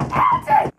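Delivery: very high called name; calling out. Real, not acted. Calling out to a friend across the room, very high. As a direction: yell across to get his attention.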